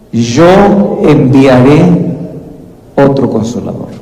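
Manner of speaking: solemn, unhurried scripture quote; slow solemn quote. Acted. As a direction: draw out the promise word by word. Quotes Jesus' second promise.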